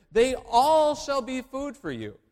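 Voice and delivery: slow, loud and high, as God's own decree; booming proclamation. Acted. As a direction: proclaim it slowly like a divine command. Quoting God's words boldly.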